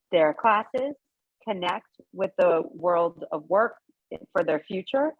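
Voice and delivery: talking through a mask; muffled behind a face mask; plague doctor mask. Real, not acted. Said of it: "can you hear me okay with the mask".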